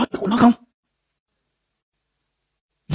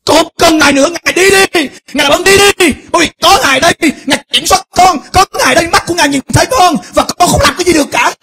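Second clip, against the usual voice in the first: high, loud voice of a man telling God to leave; acting a man; 8 semitones higher, 3 dB louder than usual. Preacher acting a believer telling God to go, high and loud. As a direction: throw God out, pleading and exasperated.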